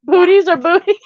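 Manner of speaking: calling out to mama, teasing. Real, not acted. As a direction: poke fun at her word. Teasing question called to mama.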